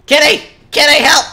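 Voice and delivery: high, loud call for help; yelling for help. Real, not acted. Gamer yelling to teammate Kitty for help, loud and high. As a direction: shout the name, then plead.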